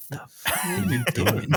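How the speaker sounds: high, slow, baffled voice; baffled onlooker. Retold or imitated. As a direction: squeak it out like a confused friend. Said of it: "looking at me like".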